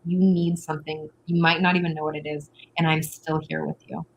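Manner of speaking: gently calm a frustrated partner; soothing reassurance. Retold or imitated. Partner calming a frustrated partner, soft and reassuring. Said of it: "slow it down there and be like".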